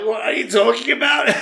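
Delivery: loud, high-pitched laughing disbelief; incredulous. Retold or imitated. Traveller stunned that stranger has friends there, incredulous. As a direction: exclaim it as a retold astonished outburst.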